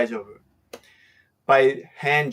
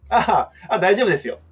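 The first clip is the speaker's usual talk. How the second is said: smiling okay; 6 semitones higher, much faster than usual. Shown as a demonstration. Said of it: "when she has a smile".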